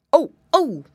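loud puppy bark of alarm. Acted. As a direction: bark the words like a pup. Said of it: "barked Jackie Bow Wow".

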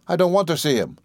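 put-on high-pitched boy's refusal; lightly voiced unwilling child; reluctant child. A narrator's reading. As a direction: refuse like an upset boy. Boy refuses to meet stepfather.

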